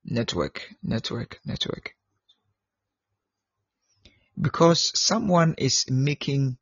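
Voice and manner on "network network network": barely audible. Real, not acted. Fading repeats over bad line.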